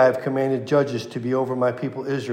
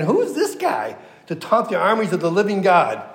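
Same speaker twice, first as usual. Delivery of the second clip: retold indignation, pitched higher; indignant challenge; 5 semitones higher than usual. Preacher voicing David facing down Goliath, indignant challenge. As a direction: quote it as an incredulous challenge.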